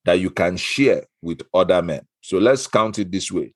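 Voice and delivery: hammed-up Igbo accent for a game segment. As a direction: play the host in a broad Igbo accent. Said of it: "I pick the Igbo accent".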